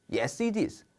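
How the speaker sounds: a voiceless little whisper. Acted. Teacher acting a secret yes, whispered. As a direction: breathe the answer secretly.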